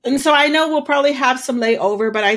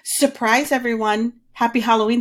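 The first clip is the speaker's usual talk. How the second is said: mock seductive; 4 semitones lower than usual. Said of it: "Do I sound sexy?".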